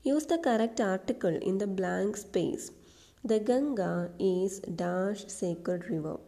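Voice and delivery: slow, deliberate exam question read-out; slow dictation reading. Shown as a demonstration. Teacher reading a PSC question aloud slowly. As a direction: read each word slowly for the class.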